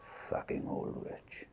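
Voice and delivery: slow whispered curse; under-breath insult. Acted. Victor cursing the nurse under his breath, whispered. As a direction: mutter it so she can't hear.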